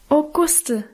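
a fond, stormy outburst; girl hugging Guste, calling her name; eager call. A narrator's reading. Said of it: "rief ich wieder".

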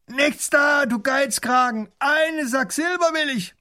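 high, loud gruff refusal; angry bandit yell; robber shouting back. Acted. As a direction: shout him down.

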